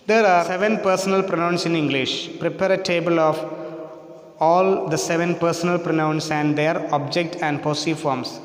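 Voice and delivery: slow, careful reading of the rule; slow, deliberate classroom reading; textbook reading. Acted. Reads textbook task aloud.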